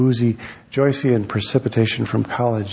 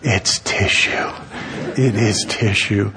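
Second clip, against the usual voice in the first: insistent retort; 4 semitones lower, slower than usual. Retold or imitated. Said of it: "and I said".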